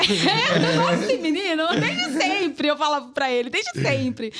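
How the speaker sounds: amused gushing through laughter; laughing. Real, not acted. Admitting to being Mateus's longtime fan, laughing. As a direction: let laughter break into the words.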